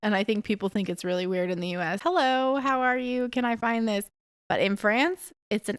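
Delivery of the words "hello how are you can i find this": bright, higher friendly greeting to a shop clerk; cheery hello. Retold or imitated. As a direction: sing out a polite hello before asking. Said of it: "I always say hello".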